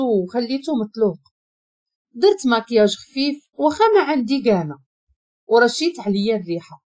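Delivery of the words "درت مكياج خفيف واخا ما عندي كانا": usual speaking voice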